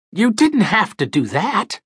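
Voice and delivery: rusty voice. A narrator's reading. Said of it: "His voice sounded rusty".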